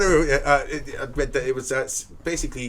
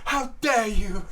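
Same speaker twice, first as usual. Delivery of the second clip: very high, trembling, near-crying mock outrage; hammed-up Greta, voice cracking with fury; shaking with anger; 10 semitones higher, 5 dB louder, slower than usual. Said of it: "it was dramatic".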